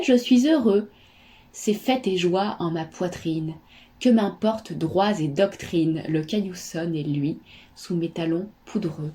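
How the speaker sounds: measured verse reading with lifted, lilting phrases; poem recitation. Acted. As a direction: recite it line by line, lingering on some. Reads a poem aloud. (récitation de poème posée et chantante)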